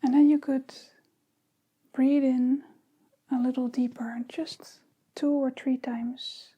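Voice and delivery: unhurried meditation guidance with long pauses; guided meditation. Real, not acted. Teacher leading listeners into breathing and body awareness, calm meditation guidance. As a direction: ease them gently into the practice, phrase by phrase.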